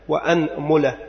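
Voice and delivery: أنملة with fatha on the hamza and damma on the mim, anmula; vowel demo. Shown as a demonstration. Teacher listing the variant for students, careful anmula. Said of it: "أولا فتح الهمزة".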